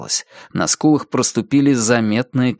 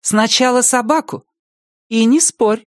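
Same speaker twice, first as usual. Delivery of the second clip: higher, firm motherly order; loud and firm; 12 semitones higher than usual. A narrator's reading. Mother ends daughter's bargaining, firm call. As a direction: lay down the rule, pitched up. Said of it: "громко и твёрдо сказала мать".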